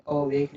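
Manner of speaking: अवेक starting on a rounded "aw"; wrong pronunciation. Shown as a demonstration. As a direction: say अवेक as "aw-wake". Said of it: "अवेक नहीं बोलेंगे". (अवेक को "ऑवेक" बोलकर)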